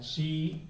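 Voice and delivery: शी with the vowel held long; लंबा उच्चारण. Shown as a demonstration. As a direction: drag out the ee in शी. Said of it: "लंबे समय तक नहीं कहना है". (शी को लंबा खींचकर)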